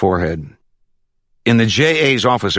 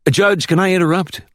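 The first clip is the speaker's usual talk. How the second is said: put-on young cop, voice raised high; changed, deferential tone; 12 semitones higher than usual. A narrator's reading. Bodyguard interrupting the judge from the doorway, high deferential tone. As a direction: politely break in on the judge, high-pitched. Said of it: "Wesley's tone was different now".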